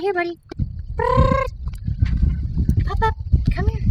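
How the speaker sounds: high, bright call to the dog; happy call. Real, not acted. Trainer calls the dog out the door, high. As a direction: call the dog along cheerfully.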